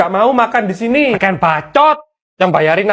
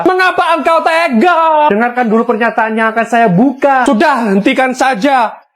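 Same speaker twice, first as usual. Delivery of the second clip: soap opera drama; 4 semitones higher than usual. Acted. Girl hamming up betrayal at the canteen vendor. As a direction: overplay it like a TV melodrama.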